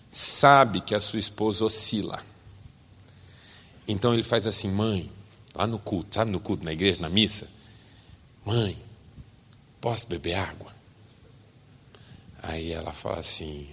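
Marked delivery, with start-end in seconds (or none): 4.7-10.7 a softly voiced child in church; child asking mother. Small boy begging mother during mass, softer pleading. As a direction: hush it like a kid at mass.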